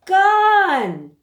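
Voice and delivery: gasp, then a high loud gone; surprised. A narrator's reading. Reader revealing the cloud has vanished. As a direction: gasp and exclaim.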